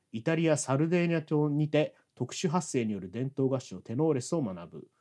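slow flat monotone reading; deadpan meme voice. Shown as a demonstration. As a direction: read the profile slowly with no expression. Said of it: "棒読みで読み上げます".

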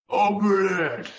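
high, slow, hungry monster hiss. Acted. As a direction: drag it out like a ravenous creature. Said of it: "A giant wart-covered tongue ... hungrily hissed".

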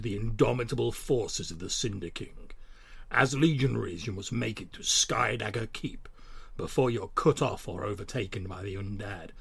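epic movie trailer narrator; dramatic fantasy film voice. Acted. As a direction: read it like a grand fantasy trailer. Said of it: "in my best sort of dramatic, like, fantasy film voice".

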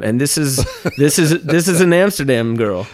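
laughing through the words. Retold or imitated. Telling the host about the sick first date, laughing. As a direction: chuckle wryly at your own bad luck. Retelling a wry realization, laughing.

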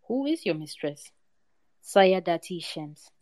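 even storyteller reading, figures lightly voiced; story narration. A narrator's reading. Storyteller reading a folk tale to a discussion group, calm narration. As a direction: read the tale to a listening group.

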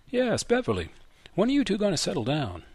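put-on old man changing the subject with a prod; old grandfather. Grandfather voiced in story.

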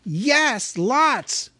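high quick blurted answer; hasty hobbit. Acted. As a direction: blurt it out before thinking. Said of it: "said Bilbo".

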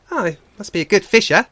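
high, loud, quick otter voice; impressed otter. Acted. Shoreback reacts to the father's feat, loud and impressed.

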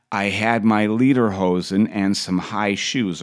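lightly imitated Austrian accent; Arnold accent. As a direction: slip into a mild mock Austrian accent. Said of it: "Arnold went on".

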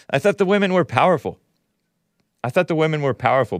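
laughing through the line, a bit fast; laughing sarcasm. Real, not acted. Host laughs at the idea of powerful women, laughing. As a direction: chuckle out the mock surprise.

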